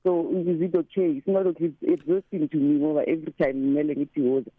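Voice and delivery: ordinary talk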